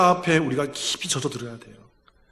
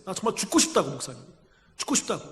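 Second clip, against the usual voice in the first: softer, worn-out despair; wife telling her pastor she wants to die, much softer; despairing confession; 9 dB quieter than usual. Retold or imitated. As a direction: say it with nothing left.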